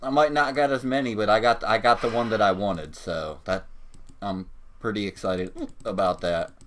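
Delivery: talking through hiccups. Real, not acted. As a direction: speak between hiccups. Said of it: "Even with my damn hiccups".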